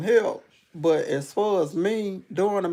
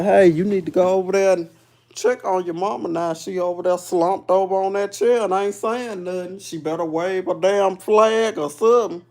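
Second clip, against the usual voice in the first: urgent warning; 3 dB louder than usual. Retold or imitated. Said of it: "and say".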